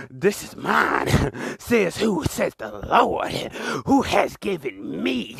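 slow preacher's chant for the crowd to repeat; call and response. Shown as a demonstration. Preacher leading the ladies to chant along, slow. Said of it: "I need you to say it with me".

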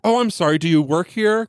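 polite clerk apologizing to the stranger, pitched high; high polite apology. Retold or imitated. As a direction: chirp it like an eager new clerk. Innocent clerk quoting herself.

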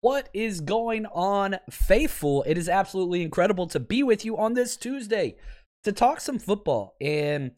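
losing his voice, raspy and worn. Real, not acted. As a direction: talk through a raspy, failing voice. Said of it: "I'm losing my voice a little bit ... hopefully the raspiness".

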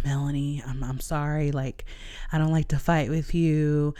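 his apology, soft and hushed; a hint of a gentle, pleading boyfriend. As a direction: coax her gently, almost under the breath. Boyfriend's soft late-night apology.

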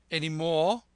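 loud, high squire's demand; challenging question. A narrator's reading. Squire prompts the captain after his points, challenging.

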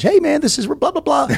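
high-pitched mocking impression of a casual voice memo; lightly mimicking the guy brushing him off; mock Dana White message. Host mocking Dana White's video reply, high and teasing. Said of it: "hits me back up with a video message".

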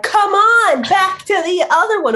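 high, bossy pet voice; voicing the dog. Dog herds the family back together, in a high bossy voice. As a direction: herd them back together. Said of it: "be like".

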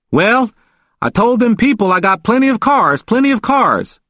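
high-pitched, insistent boasting; emphatic, excited. A narrator's reading. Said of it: "He spoke emphatically, with much more excitement".

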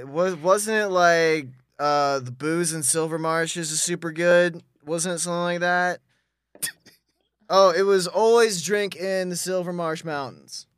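lightly played drunk, groping for the password; acting hammered. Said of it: "he's, like, really acting hammered".

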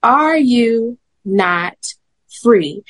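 slow patient question. Retold or imitated. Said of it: "I'm gonna ask you again".

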